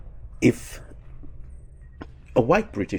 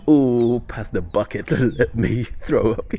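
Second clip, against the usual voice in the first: groaned revulsion breaking into laughs; laughing mock disgust. Retelling a reaction to the Asian women line, laughing disgust. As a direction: play sickened, laughing through it.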